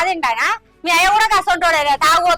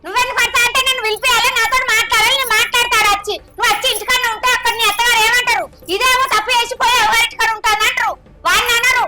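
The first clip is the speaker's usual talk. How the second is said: raised higher, insistent scolding; scolding mother; 6 semitones higher than usual. Acted. Mother scolding daughter to go back to husband, angry. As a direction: lecture her hard, voice climbing.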